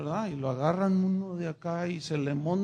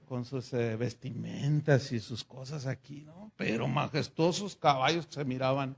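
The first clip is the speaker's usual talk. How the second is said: ordinary delivery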